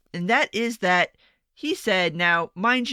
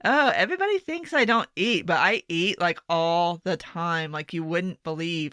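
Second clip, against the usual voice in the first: mock humblebrag; 2 semitones lower than usual. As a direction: lightly imitate a skinny girl bragging. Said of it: "that's some skinny girl bragging shit right there".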